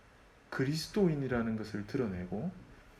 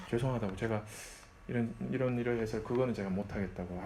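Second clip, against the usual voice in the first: polite refusal; 3 semitones lower, 4 dB quieter than usual. Retold or imitated. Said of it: "아주 정중하게 얘기할 수 있어야 돼요".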